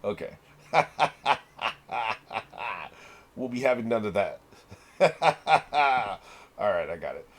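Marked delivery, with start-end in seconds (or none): 0.7-2.9 long run of ha-has; sustained ha-ha laugh; real laughter. Real, not acted. Keeps laughing at the same thing. 5.0-6.2 short burst of quick ha-has; brief rapid ha-ha laugh; real laughter. Real, not acted. Another burst of the same laugh.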